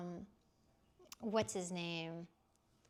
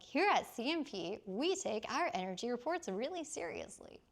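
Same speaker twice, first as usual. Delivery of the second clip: professional voice; 3 semitones higher than usual. Shown as a demonstration. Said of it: "That's my professional voice".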